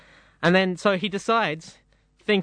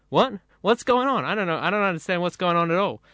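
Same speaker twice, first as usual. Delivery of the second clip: confused bird Bob; 2 semitones higher than usual. Acted. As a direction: play Bob the baffled bird, pitch jumping up.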